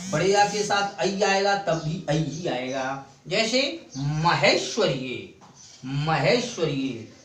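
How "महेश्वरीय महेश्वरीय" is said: महेश्वरीय with the ऐ vowel clearly stressed. Shown as a demonstration. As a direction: lean on the ऐ sound in महेश्वरीय. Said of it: "ऐ की मात्रा पर बलाघात हो रहा है". (महेश्वरीय में ऐ पर बलाघात)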